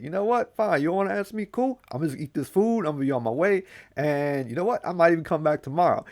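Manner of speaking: high, breezy dismissive voice; high, careless trickster; Anansi shrugging it off. Acted. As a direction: brush off the silent old man. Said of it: "Nazi's like".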